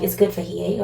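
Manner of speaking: a light Caribbean lilt on the quote; Caribbean accent. Retold or imitated. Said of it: "I picked up someone with a Caribbean accent".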